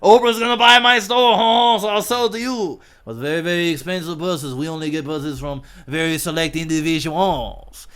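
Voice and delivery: hammed-up chuckling store owner; jolly laughing shopkeeper. Shopkeeper chuckling as he answers Oprah, hammed up. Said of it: "this guy goes".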